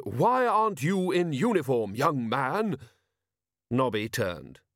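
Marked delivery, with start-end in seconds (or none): 0.0-2.8 put-on high, haughty old lady's demand; imperious elderly lady. A narrator's reading. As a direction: challenge him like a commanding matron. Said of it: "an imperious voice said".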